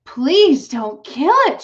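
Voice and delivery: high, slow, tearful pleading; sobbing plea. A narrator's reading. Fern begs her father to spare the pig, sobbing. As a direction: beg through tears like a child. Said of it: "she sobbed".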